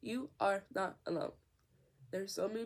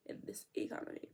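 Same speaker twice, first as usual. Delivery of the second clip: whispered repeat, much softer; whispered aside; 7 dB quieter than usual. Real, not acted.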